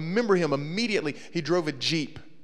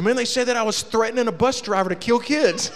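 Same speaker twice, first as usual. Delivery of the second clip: laughing indignant; 7 semitones higher, 5 dB louder than usual. Retold or imitated. Daniel outraged, teller laughing.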